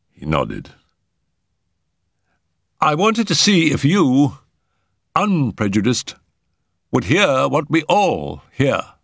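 high-pitched earnest man; Settle, earnest. Acted. Settle explaining what he saw on the lawn, high and earnest.

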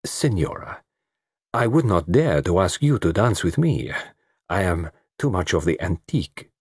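gently voiced foreign detective; lightly accented, self-deprecating courtesy; murmured gallantry. Detective declining to ask a girl to dance, gallant murmur. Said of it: "Poirot murmured to the South American girl".

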